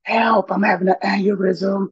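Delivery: high-pitched cry for help at normal volume; contained mock scream, high and pleading; imitated hollering for help. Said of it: "I'm hollering".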